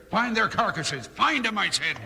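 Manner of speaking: angry order. Acted. Boss ordering search angrily.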